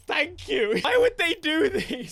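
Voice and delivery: high, loud exasperated laughing outburst; hammed-up despair at the developers; mock dismay. Streamer blaming the game makers, in high loud mock dismay.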